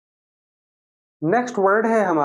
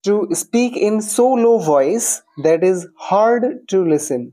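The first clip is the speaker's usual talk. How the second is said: slow read-out; 4 semitones higher, much slower than usual. Shown as a demonstration.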